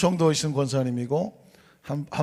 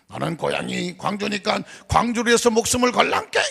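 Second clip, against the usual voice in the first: Jeolla dialect; 7 semitones higher than usual. Retold or imitated. Gwangju loyalist voiced.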